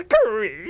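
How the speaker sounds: high, drawn-out creaking noise; door creak. Acted. The slasher opens the door, door creak. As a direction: imitate a squeaky opening door.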